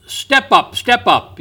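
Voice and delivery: high, hawking carnival barker call. Retold or imitated. Preacher mimicking a carnival barker to contrast Jesus, high hawking call. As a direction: pitch it up like a man at the carnival selling tickets. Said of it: "like the man at the carnival".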